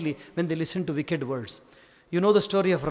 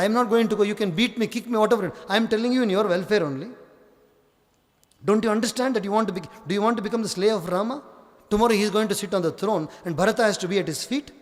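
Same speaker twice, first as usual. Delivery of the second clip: fast, insistent persuasion; pressing Manthara; 3 semitones higher, much faster than usual. Acted. Manthara persuades Kaikeyi, fast and insistent. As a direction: talk her round in a rush.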